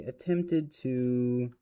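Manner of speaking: deliberate careful restart; slow rephrasing. Shown as a demonstration. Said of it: "well, how would we say?".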